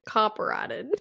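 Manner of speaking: imitating a country twang; mock country accent. Echoing co-host's word back to her, mock country accent. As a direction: lightly mimic her country pronunciation. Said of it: "You sounded very country".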